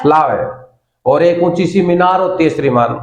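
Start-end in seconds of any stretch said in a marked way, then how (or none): 0.0-0.7 फ्लावर as falling 'flaa-ve', no R; R-less ending on फ्लावर; British R-dropping. Shown as a demonstration. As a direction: swallow the R in फ्लावर. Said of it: "वो रे को खा जाते हैं".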